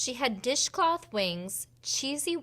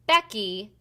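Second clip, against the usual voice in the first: stern name call; 7 dB louder than usual. Acted. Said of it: "said Natalie".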